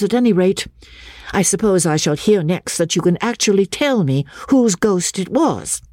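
high-pitched, exasperated derision; mocking. A narrator's reading. Miss Halcombe scoffs at the little boy's story, mocking. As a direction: throw the child's words back, pitched high. Lady mocks the boy's answer.

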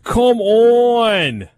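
hammed-up Minnesota Boston hybrid; Minnesota Boston accent. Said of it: "a Minnesota Boston hybrid there".

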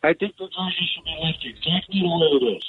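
caller too far from the phone; phone held away. Real, not acted. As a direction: voice fading off the receiver. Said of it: "Talk into the phone".

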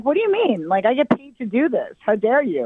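high-pitched performer's outrage; mock indignation. Comic telling off daughter who cut off her voices, mock indignant.

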